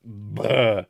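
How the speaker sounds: loud retching noise of disgust; disgusted bleh. Real, not acted. Streamer recalling another man's gross stuff, disgusted bleh.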